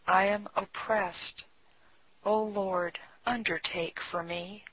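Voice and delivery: softly read, reverent prayer; hushed devotional reading with measured pauses. A narrator's reading. A believer giving himself up to the Lord, praying softly. Reads a written prayer aloud.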